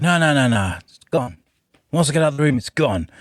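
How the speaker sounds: put-on light Cockney accent, tough and dismissive. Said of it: "I did it in a Cockney accent".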